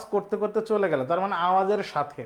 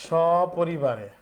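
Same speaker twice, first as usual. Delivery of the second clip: সপরিবারে drawn out, each syllable separate; teacher slowly repeating a student's answer; slow, spelled out; much slower than usual. Shown as a demonstration. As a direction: stretch সপরিবারে out for the class. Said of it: "সাবিকুন্না লিখেছে সপরিবারে".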